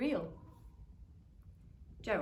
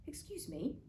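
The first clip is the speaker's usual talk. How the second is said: little cricket voice; 6 semitones higher, 5 dB quieter than usual. Acted. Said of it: "coughed a cricket".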